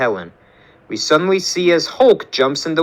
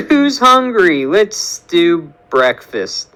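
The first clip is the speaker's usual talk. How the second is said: forced cheer; 4 semitones higher, 3 dB louder, slower than usual. Acted. Helen changes subject nervously.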